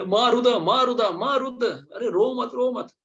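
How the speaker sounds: high, loud Indra urging don't cry; hushing babies. Acted. Indra shushing the crying babies in the womb, high and loud. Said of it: "Devraj Indra बोले".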